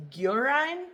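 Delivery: Guérin said tentatively in French; trying French. Real, not acted. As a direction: attempt the French Guérin carefully. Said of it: "If I am butchering your language".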